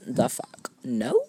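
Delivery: slow disbelief, then a sharp leap up on no; baffled, refusing to accept it; incredulous. Retold or imitated. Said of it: "I'm like".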